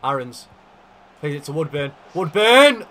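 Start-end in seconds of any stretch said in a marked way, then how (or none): 2.1-2.8 high, loud yell of the name; excited shout. Real, not acted. Watching a chance fall to Woodburn, loud excited shout.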